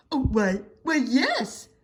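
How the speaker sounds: flattered dragon. A narrator's reading.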